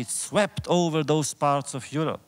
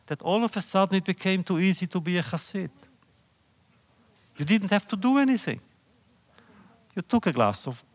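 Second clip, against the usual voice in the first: quick, higher, tossed-off mockery; mocking ease; 3 semitones higher, faster than usual. Real, not acted. Lecturer mocking how easy being a Hasid became, fast and higher. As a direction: rattle it off as if it were nothing.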